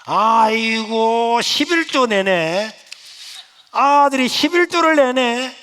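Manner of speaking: loud, high scornful brother's rant; mocking older brother. Older brother loudly mocking the church's greed. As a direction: sneer at the little brother's tithe.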